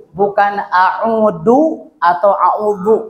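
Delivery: a'udu and a'udzu said slowly as wrong forms; slow contrast. Shown as a demonstration. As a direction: slowly list the wrong versions.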